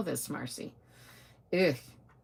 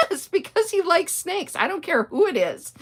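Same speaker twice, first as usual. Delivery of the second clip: laughing through the words, much higher; 12 semitones higher, 6 dB louder than usual. Real, not acted. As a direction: giggle out the defense. Retelling her answer while laughing.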